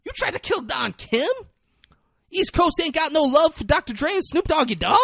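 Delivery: high-pitched indignant mock yell; outraged gang boss. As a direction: demand it in a strained, high voice. Acted gang boss confronts his attackers.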